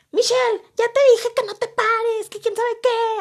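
very high, shrill, hysterical tone. Retelling a teacher scolding a student: imitating a hysterical teacher. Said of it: "así toda histérica".

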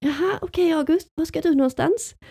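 voice rising to falsetto. Retelling what she asked August as he left, voice rising to falsetto. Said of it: "Jag hör min röst bara gå upp i falsett så här".

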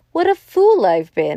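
high-pitched, exclaimed cry outburst. The colonel, seeing an armed man he knows stalking about, exclaims. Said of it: "exclaimed the colonel".

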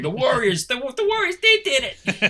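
imitated shout. Telling a game story, the speaker acts out the rogues' leader, retelling a shout. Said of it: "starts shouting".

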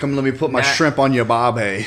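put-on Australian accent, very loud and high-pitched. After asking for a best Australian accent, trying one: Australian accent. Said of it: "what's your best Australian accent?".

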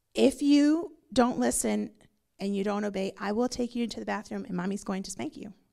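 plain

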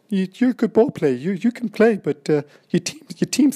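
squeaky, very high, loud, shrill falsetto, teasing. Retelling what a man who came over said to him, very high-pitched voice. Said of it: "in a very high pitched voice".

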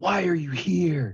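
loud, raspy voice pitched very high. Retelling a story, acting out him confronting the group in a louder, raspy voice. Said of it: "his voice gets louder and he says".

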